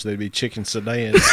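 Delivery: punchline cracking up; bursting out laughing. Real, not acted.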